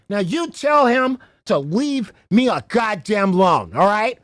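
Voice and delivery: slow, shouted imitation of the caller; hammed-up angry order; mock angry demand. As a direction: bark it out like the furious caller. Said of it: "so angry".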